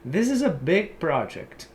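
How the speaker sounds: slow model sentence, project stressed PROject; example sentence. Shown as a demonstration. Teacher modelling the noun project for students. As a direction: read it slowly for learners. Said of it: "substantivo que significa literalmente projeto".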